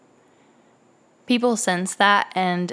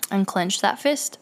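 very calm voice. Retold or imitated. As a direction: stay steady and unafraid. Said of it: "I tell him in a very calm voice".

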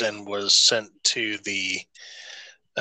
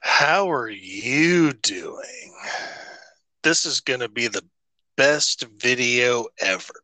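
breathy stretched greeting. Retold or imitated. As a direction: drag the greeting out breathily, then speed up. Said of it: "elongating your vowels and doing it in a voice".

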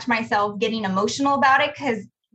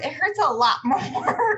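a short laugh breaking into the last words; 5 semitones higher, slower than usual. Real, not acted. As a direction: chuckle through the words, rueful. Rueful joke about costly mistakes.

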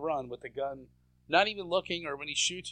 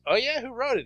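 Rob Schneider; 9 semitones higher, 4 dB louder than usual. Retold or imitated. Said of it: "And Rob Schneider says".

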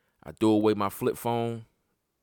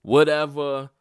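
pissed off; 3 semitones higher, 4 dB louder than usual. Retold or imitated. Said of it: "I'm pissed".

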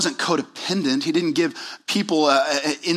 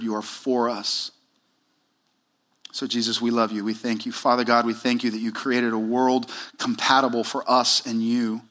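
earnest, measured prayer voice; closing prayer; 2 semitones lower than usual. Real, not acted. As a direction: pray aloud on the congregation's behalf, pausing between thoughts.

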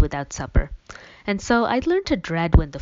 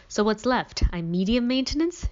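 teasing; 5 semitones higher than usual. Acted. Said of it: "she teased".

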